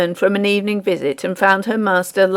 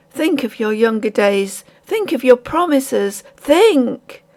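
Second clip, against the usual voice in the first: earnest; 3 semitones higher than usual. Acted. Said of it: "looking earnestly into the prisoner's face".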